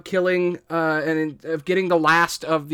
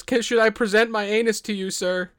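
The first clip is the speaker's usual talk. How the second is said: fast, pitched-up grovelling offer; overeager bandit; 5 semitones higher than usual. Acted. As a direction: rush out the offer, too eager. Eager bandit offers himself.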